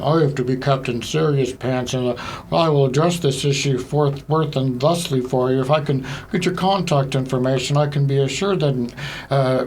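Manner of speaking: stiff, officious phone-agent parody; put-on corporate formality; mock serious professional. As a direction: stumble through pompous office jargon. Mocking his serious work voice.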